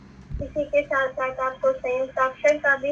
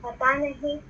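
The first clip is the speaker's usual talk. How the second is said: expressive story reading. Shown as a demonstration. Teacher reads a Hindi story to her pupils, expressive reading. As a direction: read the passage aloud with feeling and clear pauses. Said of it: "अब मैं आपको सही तरीके से पढ़कर बताऊंगी".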